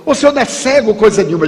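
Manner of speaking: very high, incredulous protest; disbelieving stranger. Retold or imitated. Stranger insisting the speaker cannot be blind, very high. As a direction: refuse to believe it.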